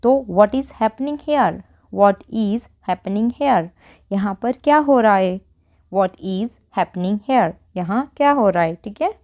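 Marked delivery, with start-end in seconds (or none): 0.3-3.7 very slow, word by word; slow model sentence. Shown as a demonstration. Teacher modelling an English sentence for Hindi learners, very slow. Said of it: "बोलते जाना है". 5.9-7.5 very slow, word by word; slow model sentence. Shown as a demonstration. Teacher modelling an English sentence for Hindi learners, very slow. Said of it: "बोलते जाना है".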